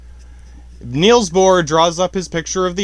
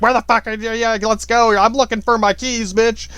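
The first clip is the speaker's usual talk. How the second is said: nagging wife impression; 6 semitones higher than usual. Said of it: "your wife's like".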